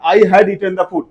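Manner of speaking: very slow, careful English, word by word; slow model sentence. Shown as a demonstration. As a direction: drag it out slowly for the class. (बहुत धीरे-धीरे बोलकर)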